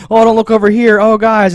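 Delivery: flustered sitcom cover-up; awkward sitcom flustered. Retold or imitated. Mom hiding the map from the guys, sitcom-flustered.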